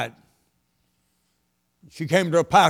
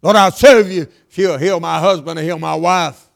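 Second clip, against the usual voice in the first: louder pleading prayer, pressing each word; loud mock prayer; 6 dB louder than usual. Preacher acting a churchgoer bargaining with God, loud plea. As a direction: call it out like a bargain with heaven.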